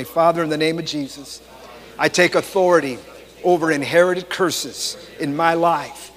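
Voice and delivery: firm declarative prayer in phrases; measured, emphatic congregational prayer; led prayer. Real, not acted. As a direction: pray aloud for people to repeat after you.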